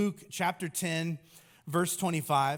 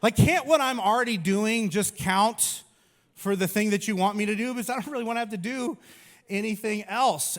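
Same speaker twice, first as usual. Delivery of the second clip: loud pleading whine; 4 semitones higher, 5 dB louder than usual. Pretend. Pleading with the doctor.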